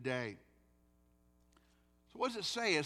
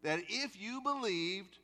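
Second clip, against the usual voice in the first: 1 voicing Jesus; 5 semitones higher than usual. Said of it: "Hear the exact words".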